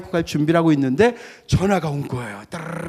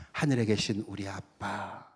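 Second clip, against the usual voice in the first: put-on soft, slow "하늘에 계신 우리 아빠" said like a child to a dad; tender "아빠"; 6 semitones lower, 10 dB quieter than usual. Shown as a demonstration. Pastor showing the congregation a tender, close prayer. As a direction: coo the word 아빠 gently. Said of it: "어감이 좀 틀리죠?".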